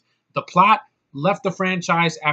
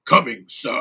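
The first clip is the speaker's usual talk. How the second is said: butler robot impression; 3 semitones lower, 6 dB louder than usual. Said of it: "With this wannabe C three P O".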